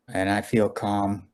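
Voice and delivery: slow, calm and quiet. Real, not acted. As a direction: say it slowly and calmly. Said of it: "I feel calm and quiet right now".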